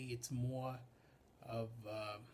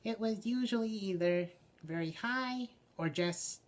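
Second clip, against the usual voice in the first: high, loud character voice; very high puppet voice; 8 semitones higher, 7 dB louder than usual. Shown as a demonstration. Puppeteer demonstrates the Woozle's first voice, very high. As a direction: pitch it way up for the puppet. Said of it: "what kind of voice to give him".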